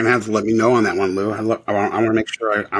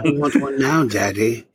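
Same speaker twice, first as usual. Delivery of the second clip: put-on higher, whiny spoiled child; spoiled brat voice; 5 semitones higher than usual. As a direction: demand it like a spoiled kid. Imitating spoiled Veruca Salt.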